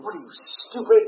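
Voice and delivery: high, loud, exasperated outburst; mock-furious jab at someone clueless; retold inner anger. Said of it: "I'm sitting there so angry".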